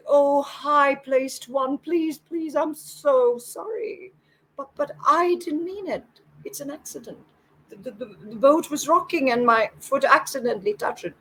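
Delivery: high-pitched, stammering poor farmer; apologetic, cowering plea; frightened pleading. A narrator's reading. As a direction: beg for mercy in a high voice. Poor farmer begs angry samurai for mercy.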